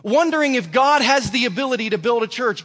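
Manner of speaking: God shouting the question back at him; God scolding. Retold or imitated. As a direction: preach God's rebuke with full force. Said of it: "He said".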